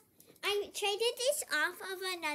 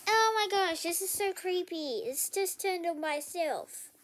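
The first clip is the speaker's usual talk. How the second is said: creeped out; 3 semitones higher than usual. Real, not acted. Creeped out by device.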